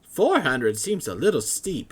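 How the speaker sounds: high, loud, flustered scholar voice; excited scholar. Acted. Matrius haggles.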